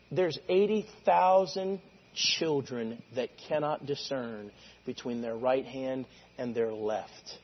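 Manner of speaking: slow, soft and tender; gentle God voice. Retold or imitated. God gently reasoning with Jonah, slow and soft. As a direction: speak it slowly with mercy.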